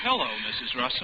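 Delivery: high, fast gleeful menace; creepy sing-song hello; sinister greeting. Acted. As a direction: greet her like a trap sprung. Captor reveals himself gleefully.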